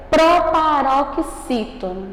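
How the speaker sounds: "proparoxítono" devagar, sílabas bem separadas; pronúncia bem direitinha. Shown as a demonstration. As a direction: articule "proparoxítono" com cuidado, pedaço por pedaço. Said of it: "você pronunciá-la bem direitinho". ("proparoxítono" lento e bem articulado)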